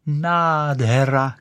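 delighted cry. Acted. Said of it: "křičela".

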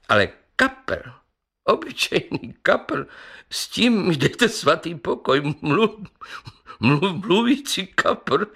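high scoffing voice, laughing at "kapr"; mocking laughter. Councillor ridicules the talking carp, laughing. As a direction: laugh the words out in disbelief. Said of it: "a rozesmál se znova".

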